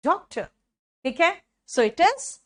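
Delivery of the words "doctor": "Doctor" with soft D, light ending; a neat, unforced "Doctor"; soft pronunciation. Shown as a demonstration. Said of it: "soft है ना". ("Doctor" नरम ड के साथ)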